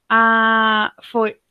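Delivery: tentative mock Italian accent. Shown as a demonstration. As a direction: try a light Italian lilt. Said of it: "tô tentando fazer um sotaque italiano".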